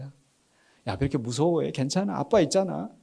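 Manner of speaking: soft, soothing dad voice; gentle fatherly comfort. Acted. Father reassuring his frightened son, gentle and soft. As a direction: hush a scared child's fears softly.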